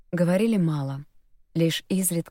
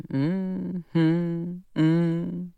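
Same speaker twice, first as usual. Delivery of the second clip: humming; 3 semitones higher, much slower than usual. Acted. Brian hums the song.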